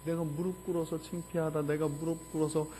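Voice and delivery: ordinary talk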